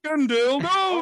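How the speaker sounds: put-on a half-hearted Indian accent; mock Indian accent. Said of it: "That sounded Indian".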